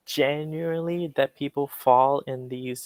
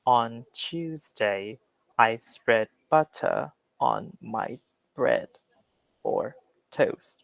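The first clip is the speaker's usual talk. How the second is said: slow, careful British accent, Tuesday and butter with a clear t; British English reading; much slower than usual. Shown as a demonstration. Teacher reads the example sentence to class, slow British accent. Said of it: "listen to how British English says that".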